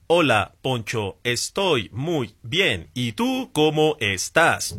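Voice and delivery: slow, stiff, lightly voiced robot reply; old robotic chatbot. Chatbot from two years ago greeting Poncho, slow and stiffly robotic. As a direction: spell it out like a canned machine answer. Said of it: "Era así, como un robot".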